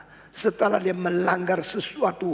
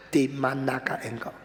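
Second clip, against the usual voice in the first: flat written reading; 4 semitones lower, 6 dB quieter than usual. Shown as a demonstration. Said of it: "kalau tulisan itu tidak ada suara".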